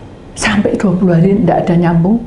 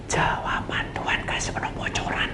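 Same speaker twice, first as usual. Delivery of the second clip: hushed, voiceless confiding; whispered secret; 13 dB quieter than usual. Retold or imitated. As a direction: lean in and whisper it. Secret told to pastor.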